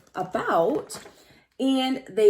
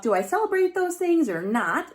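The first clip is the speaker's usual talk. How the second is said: inner voice; 7 semitones higher than usual. Pretend. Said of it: "So think to yourself".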